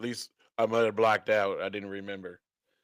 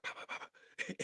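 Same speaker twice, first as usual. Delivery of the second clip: soft "pow, pow, pow" sound effect; hushed mock burst of pops; imitated popping; 14 dB quieter, faster than usual. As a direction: quietly puff out a string of pows. Imitates people popping out suddenly.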